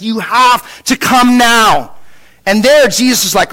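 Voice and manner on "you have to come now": drawn-out, urgent plea; desperate plea. Retold or imitated. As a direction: plead slowly, acting out a desperate father. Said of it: "there's this desperation that this guy has".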